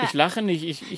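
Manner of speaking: quiet laugh held back; fighting off a giggle; stifled giggles. Real, not acted. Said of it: "Du hast gelacht".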